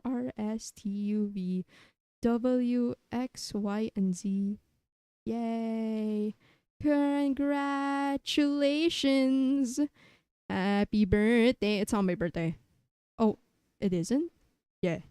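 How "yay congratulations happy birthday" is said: mock cheer. Mock celebration, drawn out.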